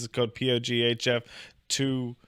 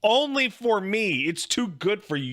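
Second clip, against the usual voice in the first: loud high slow taunt; mock gloating; 7 semitones higher, 3 dB louder than usual. Teasing wife about HelloFresh, loud mock gloating. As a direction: tease her, drawing it out.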